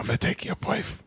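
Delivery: bad British accent, 'place' as 'pwafe'; badly faked accent. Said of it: "Is that not how they say".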